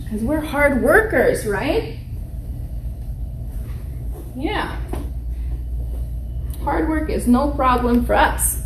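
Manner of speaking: put-on lightly cheerful teacher voice to kids; kids show host. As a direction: talk warmly to little kids. Teacher addressing children on video.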